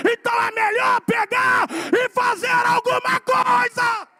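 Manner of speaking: building from firm to shouted, slow and emphatic; preaching at full force. Acted. Pastor exhorting the congregation, building to a shout. Preacher warns about living off offerings.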